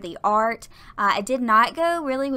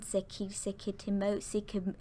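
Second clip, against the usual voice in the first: softer, faltering attempts at a name; stumbling over name; 9 dB quieter than usual. Real, not acted. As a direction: trip over the surname and restart. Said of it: "I can't say his name".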